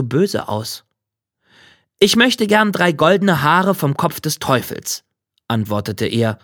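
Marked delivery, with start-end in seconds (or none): 2.0-5.0 lightly voiced young man, higher; a raised, earnest request; a hint of a youthful hero; young petitioner. Young man makes his request.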